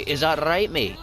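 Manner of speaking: acted confrontational comeback; pissed-off challenge. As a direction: square up to someone who insulted home. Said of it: "You'll get pissed".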